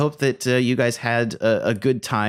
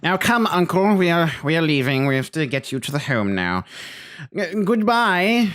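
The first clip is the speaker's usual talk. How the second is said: snooty nephew voice; 4 semitones higher than usual. Acted. Playing snooty nephew character.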